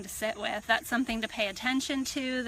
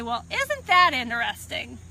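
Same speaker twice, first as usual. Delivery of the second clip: silly, playful; 6 dB louder than usual. Shown as a demonstration. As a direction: say it with hands-in-the-air levity. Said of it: "brings a little silliness and playfulness".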